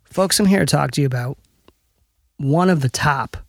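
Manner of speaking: measured plug with deliberate pauses; ad read. Acted. Host plugs a boutique to listeners, measured ad read. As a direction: sell it line by line, pausing for weight.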